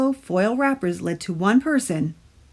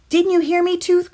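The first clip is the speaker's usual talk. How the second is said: put-on higher, louder boy's cry; crying out Stuart; 11 semitones higher, 5 dB louder than usual. A narrator's reading. Stuart cries out at the tooth, higher and louder. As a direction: call it out, exasperated. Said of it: "cried Stuart".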